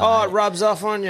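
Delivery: high, mock-Canadian excuse; Canadian twinge. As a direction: imitate him defending a put-on Canadian accent. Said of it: "What's the go with the accent".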